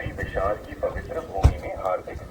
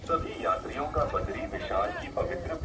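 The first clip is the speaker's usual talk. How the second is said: airport announcement. Real, not acted. Temple loudspeaker repeats announcement.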